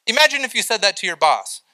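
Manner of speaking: normal talking voice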